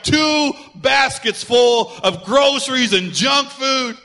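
drawn-out, loud exclaim of excess; excited exclaim. Retold or imitated. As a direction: stretch it out in disbelief. Retelling shopping while hungry.

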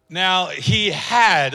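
slow, with had drawn out and falling; stress on had. Shown as a demonstration. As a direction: linger on had, falling at the end. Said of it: "let's say that word had".

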